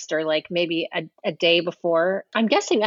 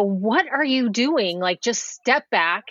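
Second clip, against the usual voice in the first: slow, mock-bossy telling-off; assertive; slower than usual. Designer confronts assistant director over scissors, assertive retold rebuke. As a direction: imitate firmly putting someone in their place. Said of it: "being assertive on set".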